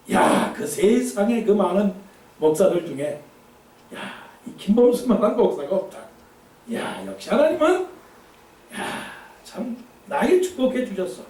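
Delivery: pat yourself on the back; smug boasting pastor. Acted. Preacher mimics a proud pastor bragging about his blessings, smug.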